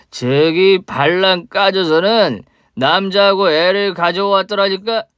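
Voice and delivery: put-on slow, slurring drunk man, bitter and loud; a sloppy drunk spitting out old grudges; drunk father. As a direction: drunk father accusing the woman he mistakes for his wife. Drunk father confronts ex-wife.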